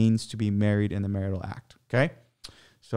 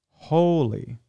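"Holy" said alone, drawn out and higher; emphasis on holy; 5 semitones higher than usual. Shown as a demonstration. Host stresses the word "Holy" from Ephesians. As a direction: lift and lean on "Holy", slowly. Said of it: "I'm emphasizing holy".

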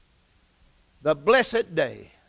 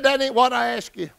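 slightly raised, insistent correction; retold firm rebuff; 4 semitones higher, 4 dB louder than usual. Aunt brushing aside her nephew's excuses, firm rebuff. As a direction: cut through the excuse firmly.

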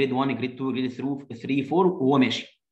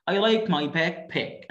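slow model reading; 2 semitones higher, much slower than usual. Shown as a demonstration. Reading child's line slowly.

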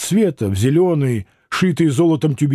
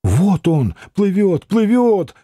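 excited whisper; 4 semitones higher, slower than usual. Acted. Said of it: "снова зашептала Алина".

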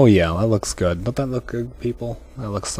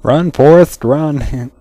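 cheering shout; 4 semitones higher, 6 dB louder, much slower than usual. Acted. Cheering a running dancer.

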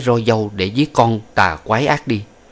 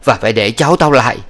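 harsh order; 2 semitones higher, 5 dB louder, faster than usual. Acted. Old woman ordering concubine out.

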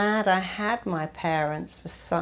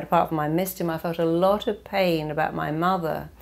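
usual speaking voice

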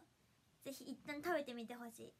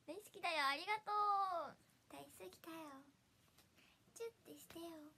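sweet lines for fans; 2 semitones higher than usual. Pretend. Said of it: "の違いがね、 わかりやすいようにしたんだ".

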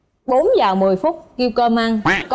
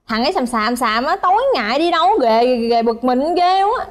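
imitating mother; 2 semitones higher than usual. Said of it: "mẹ con là kiểu hay nói".

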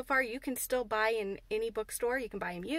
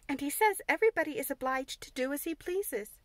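firmly; 4 semitones higher than usual. Acted. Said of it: "said Mary firmly".

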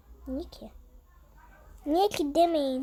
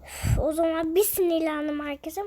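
annoyed; 4 semitones higher, 4 dB louder than usual. Real, not acted. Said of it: "Hala çok sinirliyim".

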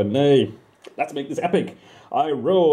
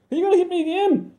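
high, fast, frightened; panicked question; faster than usual. Acted. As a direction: cower as you ask. Narrator panics at God.

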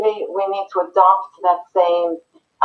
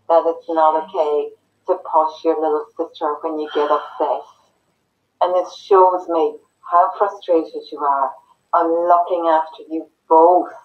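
gentle parent. Shown as a demonstration. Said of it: "when we can say".

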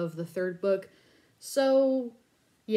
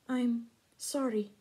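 a touch softer and slower, gently; soft and gentle; 4 semitones higher, 3 dB quieter than usual. Acted. Lairdy Ann consoling Vaden at the burning palace, gently soft. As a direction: comfort him quietly. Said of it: "said softly, gently".

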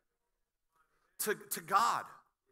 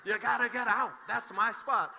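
laughing, hammed-up preacher rebuke, getting louder; mock rebuke; 4 semitones higher, 4 dB louder than usual. Pastor joking about a parking spot, mock stern and laughing. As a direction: playfully cast out a young driver, giggling. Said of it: "pull up and say".

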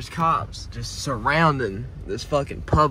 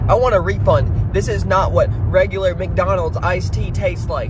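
higher whiny complaining customer voice; mocking whiny customer; 7 semitones higher than usual. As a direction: whine like a fussy customer. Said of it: "he was like".

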